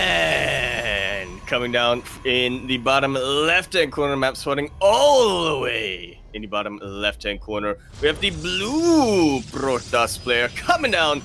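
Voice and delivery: slow, stretched-out ringside-style intro; announcer player introduction. Acted. Caster presenting the blue Protoss player, drawn-out announcer style. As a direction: draw out the key words like a ring announcer.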